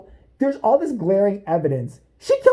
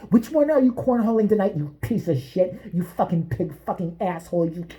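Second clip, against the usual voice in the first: mock prank call. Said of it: "prank calls him".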